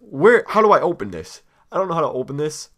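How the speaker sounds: high, loud, exasperated yelp; fed up with the wrapper, let it burst out; frustrated outburst. Real, not acted. Struggling to open chocolate wrapper.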